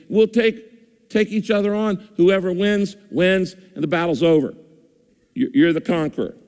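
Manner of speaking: lightly voiced boastful giant calling out the army; taunting giant. Goliath taunting Israel's army, lightly mocking voice. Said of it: "he taunts and he shouts and he goes".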